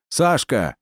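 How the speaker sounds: high call of a name. A narrator's reading. Calling the boy.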